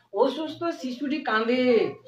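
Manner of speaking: slow, careful reading of অসুস্থ শিশুটি কাঁদে; slow model sentence. Shown as a demonstration. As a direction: read অসুস্থ শিশুটি কাঁদে slowly, word by word. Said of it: "শুধু অসুস্থ বলেছি". (ধীরে ধীরে পড়া বাক্য)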